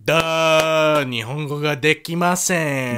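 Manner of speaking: slow halting broken-Japanese act; hammed-up clueless gaijin; playing dumb foreigner. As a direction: play the clueless tourist. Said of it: "deploy "I'm a stupid gaijin".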